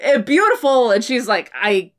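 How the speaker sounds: awkward, flustered bad acting, laughing through it. Sam badly covering with Sarah, mock flustered bad acting. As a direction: fumble the cover story. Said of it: "he just so badly is like".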